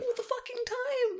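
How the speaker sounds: high, slow, laughing half-sob; laughing despair. Real, not acted. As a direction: let it break into a laughing whine. Exasperated, breaking into laughter.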